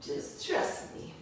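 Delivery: little intonation. Shown as a demonstration. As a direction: breathe "Just trust me." as a soft whispered aside. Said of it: "Did you hear that little intonation?".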